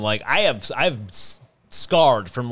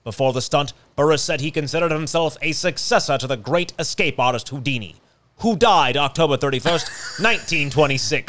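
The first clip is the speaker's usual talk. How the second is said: put-on old newscaster voice; 3 semitones higher than usual. Shown as a demonstration. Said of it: "should I read it like a old newscaster?".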